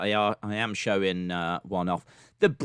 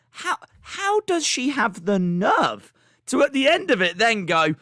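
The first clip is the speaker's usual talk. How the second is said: incredulous mock; 4 semitones higher, 3 dB louder, slower than usual. Mocking the girl's abrupt exit.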